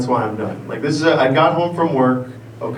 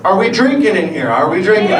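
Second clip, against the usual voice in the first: high, insistent repeated question; rallying the crowd; 5 semitones higher than usual. Real, not acted. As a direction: call out to get the crowd cheering. Rallies crowd after weak response.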